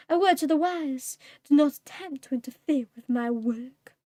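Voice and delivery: a hint of a cold, gloating cat demon; menacing demon monologue. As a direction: let the villain savour each threat.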